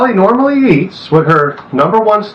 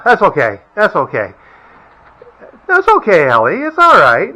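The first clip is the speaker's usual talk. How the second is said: soothing dog talk. Real, not acted.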